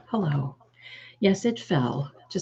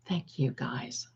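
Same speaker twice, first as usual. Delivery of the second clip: much softer, lower, slow thank you; quiet thanks; 3 semitones lower, 9 dB quieter, slower than usual. Real, not acted. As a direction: drop back to a soft thanks. Thanking viewers.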